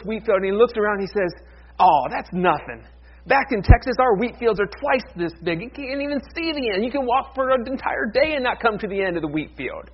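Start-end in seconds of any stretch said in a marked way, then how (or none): 1.8-9.9 lightly voiced farmer bragging, pitched up; boastful Texan farmer. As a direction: brag as a joke's big-talking Texan, a touch higher.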